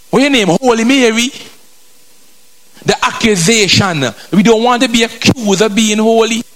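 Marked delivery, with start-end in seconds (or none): 0.1-1.3 high-pitched teasing jibe; mock question, pitched high; mocking taunt. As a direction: needle them for being holy. Mocker taunts the holy person.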